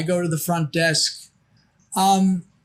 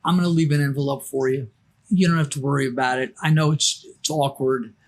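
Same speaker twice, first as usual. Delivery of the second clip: low, matter-of-fact reassuring quote; lightly acted reassurance, pitched down; calm reassurance; 5 semitones lower, faster than usual. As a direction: put them at ease in a lower voice. Voicing Danny reassuring the narrator.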